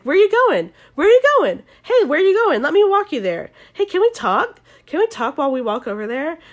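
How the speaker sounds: high, loud, insistent pleading; mock a needy guy badgering someone; high-pitched hammed-up pestering; pestering clingy guy.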